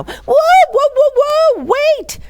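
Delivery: very high, loud whoa; exclaimed. A narrator's reading. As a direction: cry out to stop him. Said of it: "exclaimed Rivka".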